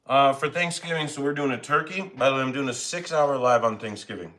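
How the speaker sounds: talking through a mouthful; words round a bite of food; mouth full. Real, not acted. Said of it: "Sorry to talk in my mouth full".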